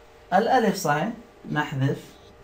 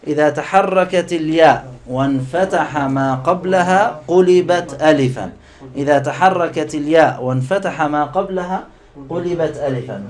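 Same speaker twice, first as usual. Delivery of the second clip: recited rule. Shown as a demonstration. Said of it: "نقولها معًا". (ترديد القاعدة ببطء مع الطلاب)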